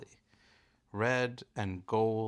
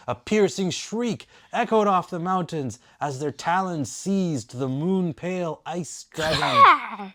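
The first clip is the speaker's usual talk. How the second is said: dramatic narration; 8 semitones higher, 7 dB louder than usual. A narrator's reading.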